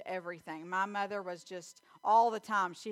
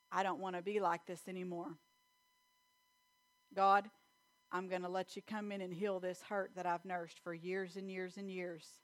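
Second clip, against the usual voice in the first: soft, sincere confession to God; hushed prayer fading at the end; quiet prayer; 2 semitones lower, 5 dB quieter than usual. Acted.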